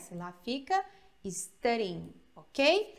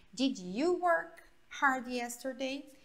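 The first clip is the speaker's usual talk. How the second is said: slow model question; slower than usual. Shown as a demonstration. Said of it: "como se ele fosse no presente".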